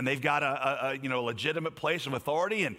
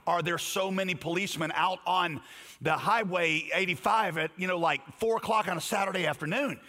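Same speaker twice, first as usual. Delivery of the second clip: retold frustration; 3 semitones higher than usual. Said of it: "I said in frustration to my wife".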